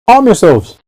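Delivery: pitched high, ringing call to arms; rally the troops with a high cry. Shown as a demonstration.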